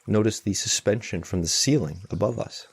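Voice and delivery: unhurried meditation guidance with long pauses; spacious, measured mindfulness instruction; guided meditation. Real, not acted. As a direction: guide them gently, leaving long silences between phrases.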